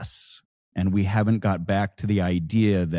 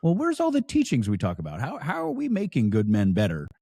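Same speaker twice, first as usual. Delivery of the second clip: higher-pitched retold puzzled question; imitating himself questioning; 4 semitones higher than usual. Newcomer asking at meetings, mock puzzled questioning. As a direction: act out asking, voice lifted. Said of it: "and I go".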